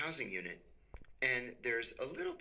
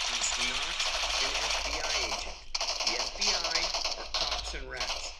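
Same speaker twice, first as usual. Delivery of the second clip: loud, emphatic sales pitch to the guys; a friend vouching loudly for the newcomer; loud retold pitch; 9 dB louder than usual. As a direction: talk them into it, loud and firm. Retelling Mark's pitch to the Italians.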